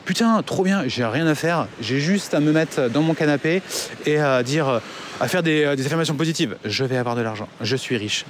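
imitation d'une cliente naïve, plus aiguë; enthousiasme moqué. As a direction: joue la cliente ravie et crédule. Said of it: "tu te dis". (imitation moqueuse d'une cliente ravie)

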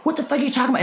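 a teen's indignant comeback to mom, retold; retold exasperated outburst. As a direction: throw it back at mom in disbelief. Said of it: "I'm just like".

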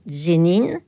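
Génine opening with a slight D before the J; local pronunciation. Shown as a demonstration. Showing the local form, Génine with a DJ onset. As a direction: start Génine on a DJ sound. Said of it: "la prononciation locale fait Génine".

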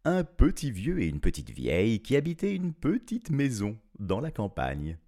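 measured, expressive fairy-tale narration; storytelling. A narrator's reading. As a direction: tell it to children with swooping intonation.

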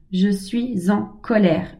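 very slow, each word set down on its own; a deliberate, spaced-out admission of anger; slow spoken affirmation. Shown as a demonstration. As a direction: say it aloud slowly, owning the anger. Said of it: "Dites-le à voix haute".

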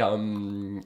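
usual speaking voice

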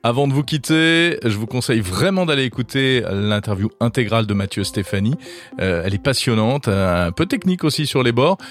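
hoarse voice from a head cold; sepulchral voice. Real, not acted. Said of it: "cette voix d'outre-tombe, due à un petit rhume".

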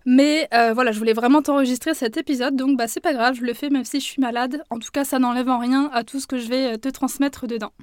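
a hoarse voice, a bit sick. Real, not acted. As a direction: speak with a scratchy, cracked voice from a cold. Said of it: "un petit peu la voix rauque".

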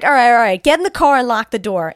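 loud, hurried-sounding cop command; urgent acted order. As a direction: retell it as a cop giving in under pressure. Acted cop hurrying frightened woman.

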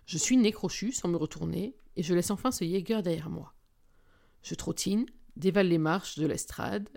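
steady first-person novel reading; story narration. A narrator's reading. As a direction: read the chapter like an audiobook. Reads a novel chapter aloud.

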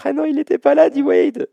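high, loud sudden recognition; a host catching himself mid-quiz, suddenly high and loud; excited realisation. Real, not acted. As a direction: burst out as the answer clicks. Host realises player missing.

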